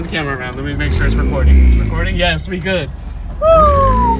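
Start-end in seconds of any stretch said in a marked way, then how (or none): 3.4-4.2 loud high cheering whoop; excited whoop. Real, not acted. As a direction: whoop with joy. Cheering, checking the recording.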